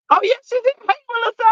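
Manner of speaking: high, happy hey Melissa; delighted hello. Real, not acted. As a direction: greet a friend with joy. Finds friend in chat.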